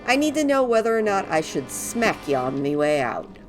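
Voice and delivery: high, loud cheerful elf voice; bouncy, relieved little helper; christmas elf. Acted. Voices freed NPC Gidwin.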